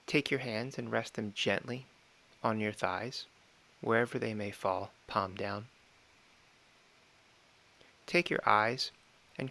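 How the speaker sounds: calm, measured meditation guide with long pauses; unhurried meditation instruction, phrase by phrase; guided meditation. Real, not acted. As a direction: gently talk them through it, pausing between phrases.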